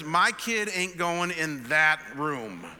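slow, loud, emphatic retold refusal; firm refusal. Brother to pastor at the nursery, imitated firm refusal. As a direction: spell it out slowly and loudly, putting your foot down.

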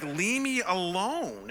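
high, drawn-out mock exasperation; exasperated brush-off. Brother to pastor walking down the aisle, mock exasperated. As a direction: stretch it out slowly, imitating a fed-up brother.

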